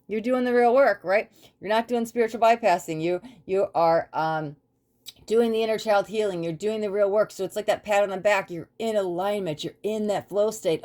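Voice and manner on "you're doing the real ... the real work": spirit guides praising. Retold or imitated. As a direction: cheer them on like proud spirit guides. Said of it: "your spirit guides are looking at you and they're like".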